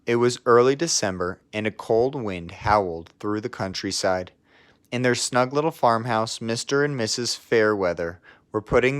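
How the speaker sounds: even, gentle bedtime-story reading; cosy storybook narrator; story narration. A narrator's reading. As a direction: read it like a picture book to a child. Reads a picture book aloud.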